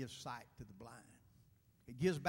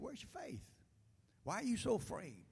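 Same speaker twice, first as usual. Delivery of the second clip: gentle rebuke; 11 semitones higher than usual. A narrator's reading. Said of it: "He said".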